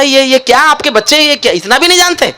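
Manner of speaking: angrier inspector. Retold or imitated. Inspector berating the teacher, hammed-up anger. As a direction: splutter at the teacher in mock anger. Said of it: "inspector को और गुस्सा आया".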